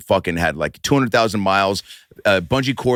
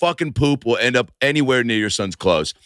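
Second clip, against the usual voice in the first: slow, higher-pitched pledge, drawn out at first; mock-solemn vow; 4 semitones higher than usual. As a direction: swear it with hammed-up gravity. Acted solemn promise to Winkler.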